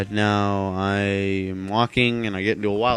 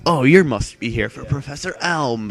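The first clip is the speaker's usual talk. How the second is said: put-on old man voice; 5 semitones higher than usual. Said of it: "I'm talking like an old man".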